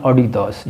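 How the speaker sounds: Adidas with an open aw start; Adidas the German way; brand name pronounced. Shown as a demonstration. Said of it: "इसको Adidas नहीं पढ़ना".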